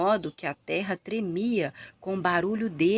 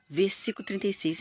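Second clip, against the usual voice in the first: breathy unvoiced whisper of the verse number; 2 semitones higher, faster than usual. Real, not acted. Reading verse numbers aloud.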